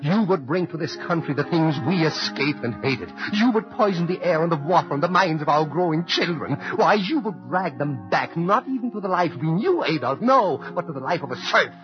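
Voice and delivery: impassioned defiance hurled at a dictator; rising outrage. Acted. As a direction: build from anger to a ringing denunciation. Immigrant's letter denouncing Hitler.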